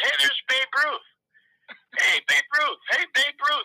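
squeaky, high-pitched calling out. Retelling how a man at camp kept greeting the speaker, high squeaky voice. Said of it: "he's got that high kind of squeaky voice".

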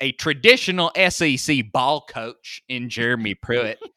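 loud, sneering, mocking delivery. Reading out a writer's line the way he meant it, retelling a line, mocking. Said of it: "like in a mocking way".

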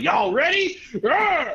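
badly done, very high street tough voice. Describing a bad movie, quoting an actor's character in a hood dude voice. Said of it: "He was just a ghetto hood dude, just like".

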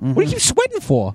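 shrill, hurried, exasperated, frantic, high, rushed. Retelling what the makeup woman said while redoing the speaker's makeup, Sherry Cornhaber impression. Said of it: "good impression of Sherry Cornhaber".

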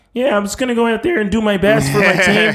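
very high, adolescent, puberty-sounding voice. Mocking how a football player talks: imitating Patrick Mahomes' voice. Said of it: "his voice is like".

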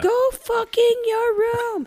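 put-on very high, upset little-kid screech. Speaker retelling Leo's outburst at home, imitating Leo screaming. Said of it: "he's screaming it right now".

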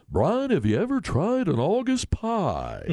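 very high, slow, swooping sing-song announcer, "pie" stretched. Retelling a colleague's impression of a play-by-play announcer: Jack Dale impression. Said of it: "used to do a great impersonation of Jack Dale".

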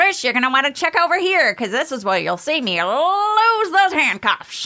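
very high carnival barker ballyhoo, lose stretched out. Imitating Houdini's old recording: Houdini impression as carnival huckster. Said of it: "a carnival huckster. He was doing a ballyhoo".

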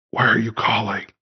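hushed voice. Playing a character taking an unexpected phone call, speaking in hushed tones. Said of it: "he'll go to hushed tones".

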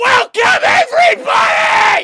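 very loud, high, shrill, hyped-up, high-energy shout. Redoing a podcast intro after being told to triple the energy: tripled energy. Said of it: "you got to triple what I just did".

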